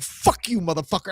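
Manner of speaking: mock angry curse starting high; retold angry insult; imitated angry cussing. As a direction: act out the old guy cussing out a clerk. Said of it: "angrily, not nicely".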